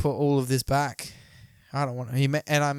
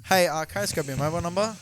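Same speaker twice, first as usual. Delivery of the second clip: mock pickup line; faster than usual. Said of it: "Just be like".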